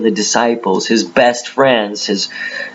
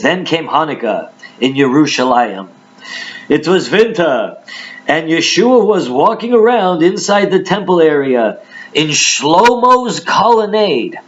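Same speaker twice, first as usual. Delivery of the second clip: put-on Bible verse in a higher-pitched old Jewish accent; 5 semitones higher than usual. Preacher reading the Jewish Bible, old Jewish accent. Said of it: "do the old Jewish accent".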